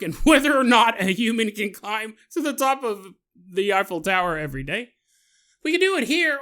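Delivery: overexcited Frenchman pitching his grand idea; mock French accent, big and bouncy. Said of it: "Doing my accent again?".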